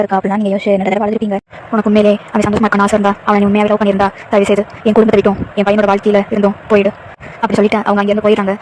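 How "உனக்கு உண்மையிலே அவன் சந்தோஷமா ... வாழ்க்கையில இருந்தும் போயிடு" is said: a lightly voiced mother-in-law scolding; mild cold blame, half-hearted taunt. Mother-in-law blaming daughter-in-law for no child, lightly voiced.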